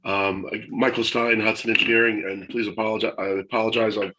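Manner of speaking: losing his voice, a bit raspy; hoarse from a chest infection. Real, not acted. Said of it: "so I'm kinda losing my voice".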